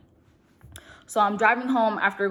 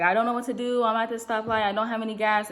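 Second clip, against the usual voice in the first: mild mock-tearful plea, slightly raised pitch; retold crying; 3 semitones higher than usual. Stranded daughter on the phone to her father, mildly mock-tearful. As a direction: lightly imitate a panicked, crying caller. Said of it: "I'm just crying".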